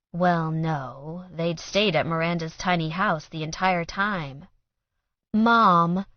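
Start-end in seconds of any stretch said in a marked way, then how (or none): 5.3-6.0 protest. A narrator's reading. Daughter protests.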